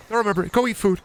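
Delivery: squeaky high nagging at the pals; high silly voice; mock high scolding.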